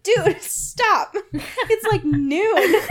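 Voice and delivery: high, loud, laughing protest; laughing plea. Retold or imitated. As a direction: crack up while begging him to stop. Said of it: "I'm like".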